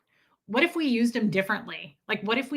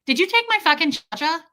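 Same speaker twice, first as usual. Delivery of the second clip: higher, brash New York question; New York accent; 6 semitones higher, 4 dB louder than usual. Retold or imitated. New Yorker walking up to a stranger, brash New York accent. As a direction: imitate a confrontational New Yorker, accent and all. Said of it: "a person with an accent like yours".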